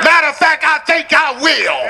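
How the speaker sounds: high preacher's cry, slowing at the end; full-force preaching. Real, not acted. Preacher ending the temptation story, fervent cry. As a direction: ring it out high to the congregation.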